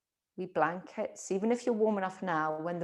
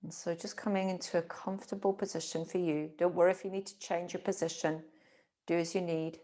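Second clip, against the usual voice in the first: calm, unhurried meditation voice; guided relaxation. Acted. Teacher settling listeners into a comfortable position, calm guided meditation. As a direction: ease them into rest with gentle pauses.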